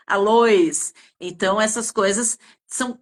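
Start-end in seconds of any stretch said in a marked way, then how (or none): 0.1-0.9 "aloes" with an l in place of the r; gentle imitation, "aloes" for arroz; mock Chinese accent. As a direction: say "aloes" with an l where the r goes. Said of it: "em vez de arroz".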